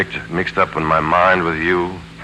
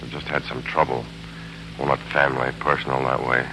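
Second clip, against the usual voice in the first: weary; 4 semitones lower, 6 dB quieter than usual. Acted. Weary confession.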